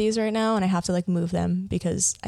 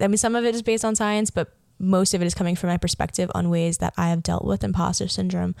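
ordinary delivery

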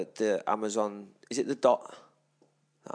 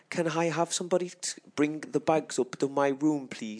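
put-on posh accent; 5 semitones higher than usual. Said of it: "you were like".

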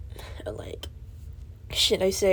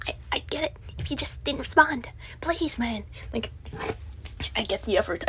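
whispering; 7 dB quieter than usual. Real, not acted. Pleading aside to friend.

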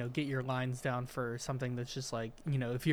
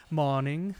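mock British morning; 4 dB louder than usual. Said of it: "they just said morning instead of".

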